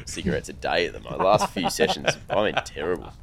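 hoarse, nasal voice; raspy and stuffed up; smoker's rasp. Real, not acted. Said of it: "Got so nasally".

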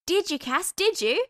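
high, loud insistent begging; eager pleading. A narrator's reading. Hester grabbing Cass's arm, begging eagerly. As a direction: badger him to tell.

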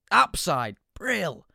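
high, bright fatherly phone voice; doting dad answering the phone; cheery dad. Retold or imitated.

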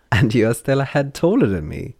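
high, loud delighted wonder; excited marvelling. Acted. Derry marvelling at Lon.

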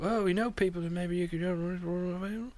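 imitating Australian podcasters slowly; Australian accent. S0 mimics the Australian podcast in a mock Australian accent. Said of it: "That was my Australian accent".

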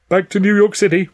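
high, loud henchman; second thug. A narrator's reading. Other thug adds, loudly and high.

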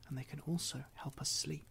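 whisper. Acted. Sleep story intro, soft aside.

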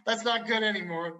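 officer. Retold or imitated. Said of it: "He's like".

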